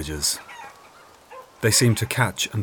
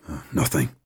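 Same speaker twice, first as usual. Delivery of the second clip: growled; 3 semitones lower than usual. Acted. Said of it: "Guy growled".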